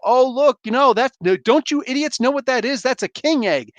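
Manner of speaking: squeaky know-it-all creature scolding idiots; voicing Broo. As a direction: Broo lecturing about the egg in a high voice. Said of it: "he starts talking about how".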